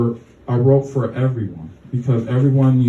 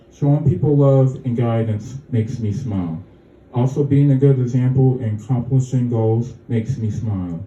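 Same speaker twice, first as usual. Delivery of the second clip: measured poem reading, lines falling at the ends; poem recital. Acted. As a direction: recite your own poem to a small audience. Reads own poem aloud.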